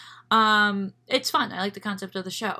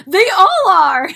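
laughing; 12 semitones higher, 16 dB louder, slower than usual. Real, not acted. Host laughs at guest's answer.

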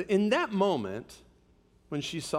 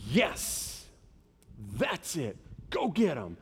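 excited cheering; slower than usual. Acted. Parent cheering on a child who accomplished it, excited. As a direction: cheer someone on, pride building phrase by phrase. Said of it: "And you're excited about that".

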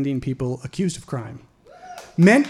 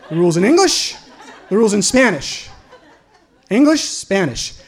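mock loud reading; 5 semitones higher, 7 dB louder than usual. Taunting the officer by reading rules.

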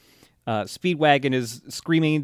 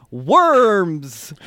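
misheard subtitle; 5 semitones higher, 6 dB louder than usual. Retold or imitated. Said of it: "The subtitles on Netflix say".

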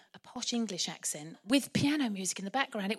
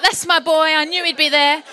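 proud Mary; 3 semitones higher, 12 dB louder than usual. Retold or imitated. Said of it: "Mary must be like".

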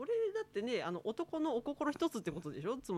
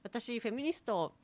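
put-on creepy ghost girl; 6 dB louder than usual. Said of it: "メリーさん？".

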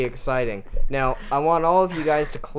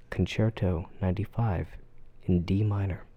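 classical radio announcer; 4 semitones lower, 4 dB quieter than usual. Pretend.

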